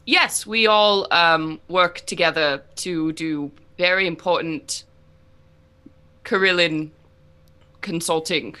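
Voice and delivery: GM voicing Rana to the party in a light British accent. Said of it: "this is Rana's voice when he talks in a British accent".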